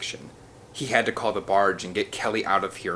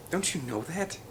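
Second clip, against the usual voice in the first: softly; 8 semitones higher, 5 dB quieter than usual. A narrator's reading. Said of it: "Ian said softly".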